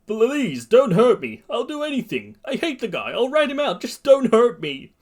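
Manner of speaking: high-pitched desperate begging; frightened pleading. Acted. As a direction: beg for your life in a high voice. Victim begging for his life.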